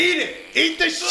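taunting. Acted. Taunting victim.

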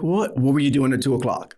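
quick retold echo question; puzzled echo. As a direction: toss the question back, quickly.

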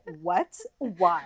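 deliberately American accent, lightly played; most American accent. Shown as a demonstration. American abroad answering an accent compliment, very American. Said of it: "in my most American way".

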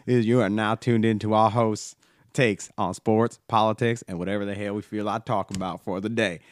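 lightly put-on Southern accent podcast intro. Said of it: "this is my end of my Southern accent".

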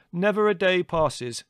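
high, loud, drawn-out mock assurance; sarcastic. A narrator's reading. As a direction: lay on the irony slowly. Larry sarcastic until Mother interrupts.

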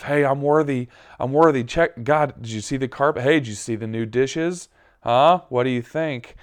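put-on a needy kid begging for praise; mock show-off. Mock self showing off to God.

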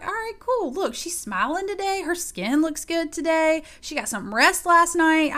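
playful, high-pitched self-compliments; self hype-up. Retold or imitated. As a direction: talk yourself up in the mirror. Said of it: "I was talking myself up in that mirror".

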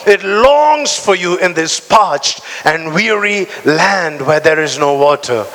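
slow, fervent group reading of the psalm; congregational reading. Real, not acted. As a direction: read the psalm slowly with the congregation. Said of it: "Read it with me".

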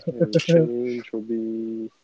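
slow, drawn-out cashier monotone; boring monotone. Real, not acted. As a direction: drag the words out, bored. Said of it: "you're like the most boring".

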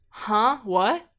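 mock startled, loud rising question; retold startled reply. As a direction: act out being jolted awake, puzzled. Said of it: "He sits up and goes".

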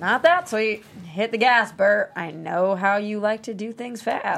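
excited urging. Acted. Jennifer urging Bert to floor it, loud and eager. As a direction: egg him on with gusto.

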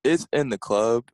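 slow, confident answer. Real, not acted. Guest answering the last trivia question, confident. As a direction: state it slowly and surely. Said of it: "I said that really confidently".

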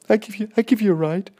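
very high, loud quick strange voice; high-pitched voice. Retold or imitated. Coach offering the boy a ride home, high squeaky voice. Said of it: "Just like that, he goes".

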